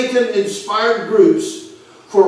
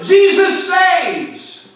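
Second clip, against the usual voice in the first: high, slow, stretched-out street-preacher shout; retold shout; 10 semitones higher, much slower than usual. Preacher calling out to the crowd, shouting. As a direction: cry it out like a preacher on the street corner. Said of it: "He was shouting".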